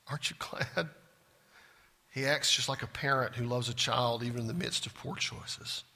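ordinary talk, nothing marked

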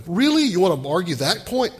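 incredulous challenge. Real, not acted. Challenging the congregation.

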